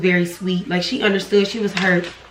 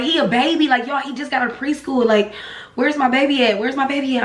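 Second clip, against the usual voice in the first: retold panic; 4 semitones higher than usual. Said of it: "I'm panicking".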